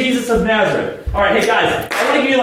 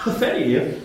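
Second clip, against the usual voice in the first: incredulous echo; 4 dB quieter than usual. Acted. Scoffs at the meek apology.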